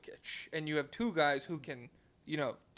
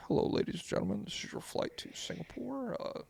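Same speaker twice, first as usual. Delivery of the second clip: pilot voice; 3 semitones higher than usual. Acted. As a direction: announce it like a pilot to passengers. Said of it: "do, like, a pilot impression right now".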